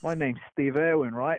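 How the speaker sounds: put-on lightly done Australian accent as a croc hunter; cheery Aussie wildlife host in an Australian accent; a hint of an Australian accent; Steve Irwin. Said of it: "I love talking Australian".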